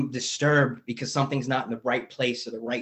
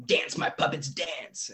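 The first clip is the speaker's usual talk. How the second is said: whispered gloating puppeteer, drawn out; mock puppet master; 7 dB quieter, slower than usual. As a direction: hiss it like a cartoon villain pulling strings. Power-mad boss quote.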